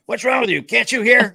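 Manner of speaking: high, loud exaggerated shouting at the dog; mock loud slow-talk. Retelling Kat yelling at her deaf dog, high and loud. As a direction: overdo it like talking to someone deaf. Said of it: "why are you talking like that".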